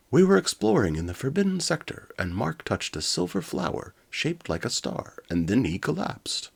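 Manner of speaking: high, loud worried robot. Acted. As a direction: tell it in a high anxious robot voice. Coptor explains anxiously.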